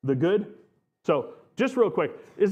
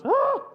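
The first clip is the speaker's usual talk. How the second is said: mock scared yelp; 5 dB louder than usual. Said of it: "I added that".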